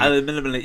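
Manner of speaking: "Aluminium" with muddled middle syllables; struggling to pronounce it. Real, not acted. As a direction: trip over the m and n in "Aluminium". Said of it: "I could never say that".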